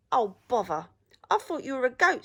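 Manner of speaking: a hint of a grumbling troll. A narrator's reading. Troll disappointed at finding a rabbit, lightly grumbling.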